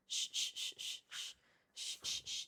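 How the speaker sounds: soft unvoiced shushing. Real, not acted. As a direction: shush gently, calming. Hushing dogs.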